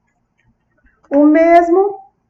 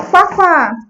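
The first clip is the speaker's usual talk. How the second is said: put-on child's "quá, quá" for a duck; light toddler-style quacking, raised in pitch; imitated duck quack; 4 semitones higher, 4 dB louder than usual. Therapist quoting a child naming the duck by its sound, playful quack.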